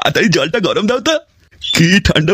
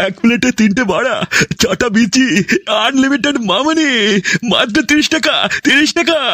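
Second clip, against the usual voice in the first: hawker's pitch. Acted. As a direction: sell the plate to passersby, rising. Hawker advertising plate price.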